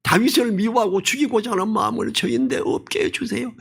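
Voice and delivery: earnest prayer. Retold or imitated. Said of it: "간절히 기도했어야 돼요".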